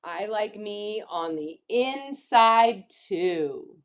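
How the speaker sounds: slow, measured rhyming storybook read; reading to children. Acted. Teacher reads rhyming picture book to children, slowly. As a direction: lean on key words, pausing between phrases.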